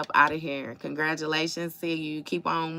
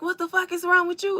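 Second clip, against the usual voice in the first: much higher, mock-incredulous yelp; retelling Quick getting punched in Harlem Nights, high mock outrage; Quick's outburst; 12 semitones higher, faster than usual. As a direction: squeak it out like a stunned man just punched. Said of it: "he was like".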